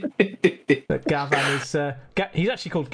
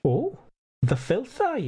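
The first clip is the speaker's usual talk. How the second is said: put-on high, teasing Scottish old gent; Scottish accent, teasing; Scottish mock jibe; 7 semitones higher than usual. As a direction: needle the cops playfully in a Scottish lilt. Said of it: "just my little joke".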